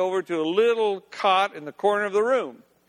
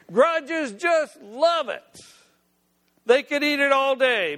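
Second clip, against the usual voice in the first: high, drawn-out doting voice; doting grudge keeper; 6 semitones higher than usual. Acted. Hag tells Faffy what grudges love, high doting enthusiasm. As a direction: gush in a raised pitch.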